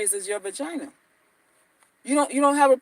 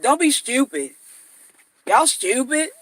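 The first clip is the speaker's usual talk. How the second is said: Jess Hilarious catchphrase. Retold or imitated. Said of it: "That's how she say stupid".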